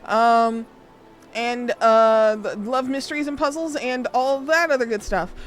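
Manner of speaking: high, bright bubbly streamer greeting; perky welcome to incoming raiders; cute anime streamer. Acted.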